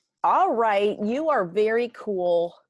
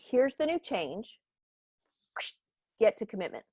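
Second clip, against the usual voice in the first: a higher-pitched, insistent boss lecturing the team; pushy boss; 5 semitones higher than usual. Retold or imitated. A leader ordering staff to skip the dip, insistent. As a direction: lay down the rules like a no-nonsense leader. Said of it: "leaders wanna say".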